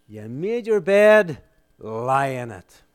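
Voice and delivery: slow, mock-condemning rebuke; hammed-up disowning, falling at the end; stern rejection. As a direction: pronounce it like a hard verdict, slowly. Acting apostles who might disown Peter.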